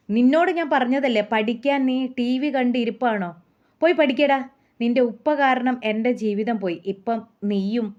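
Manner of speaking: lightly acted telling-off; mild mock scolding. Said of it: "മകനോട് വല്ലാണ്ട് വഴക്കു പറയുന്ന".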